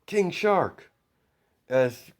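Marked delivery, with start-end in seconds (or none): 0.0-0.9 a high, loud call for a henchman; yell. Acted. Izuku yelling for King Shark to come in, high and loud. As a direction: bellow the name across the room. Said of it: "as he yells".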